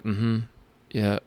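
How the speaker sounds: soft, minimal retold replies; very faint. Patient with a swollen throat answering the nurse faintly. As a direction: imitate barely managing to answer. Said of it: "very faint in my, in my words".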